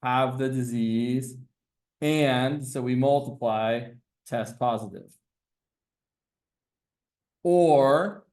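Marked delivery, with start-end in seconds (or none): 2.0-2.7 "And" stretched out slowly; stress on AND. Shown as a demonstration. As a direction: dwell on "And" to set it apart. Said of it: "Notice the emphasis on the word "and".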